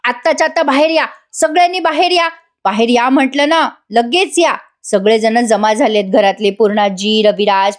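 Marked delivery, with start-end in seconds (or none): 0.0-4.5 higher-pitched retold yell, volume held back; imitating a noisy summons without real shouting; mock yelling. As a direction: order everyone out in a mild mock shout. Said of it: "मोठ्याने आरडाओरडा करते".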